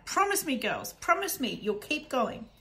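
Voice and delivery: put-on mother begging her girls to keep going; desperate plea. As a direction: beg them to promise.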